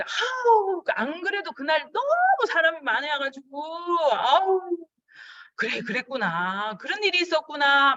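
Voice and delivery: high, exaggerated understanding sighs; calling a no-show friend with hammed-up sympathy; mock sympathy. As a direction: play the understanding friend, overdone. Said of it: "이렇게 얘기하면 돼요".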